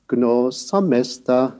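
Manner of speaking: "gnosamesta" with "gno" and "esta" kept low and level, slow; low level tones. Shown as a demonstration. Lecturer demonstrating the low tones, slow. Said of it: "the low level tone of the other syllables".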